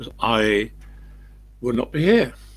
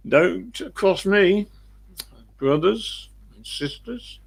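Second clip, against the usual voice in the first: mock warning; 9 semitones higher, slower than usual. Warning the audience after curse story.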